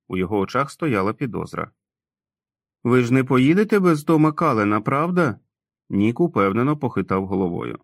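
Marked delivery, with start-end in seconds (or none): 2.8-5.4 higher, anxious question; suspicious childlike Tom. Acted. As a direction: make sure he won't be left. (підозріливе дитяче питання, вище)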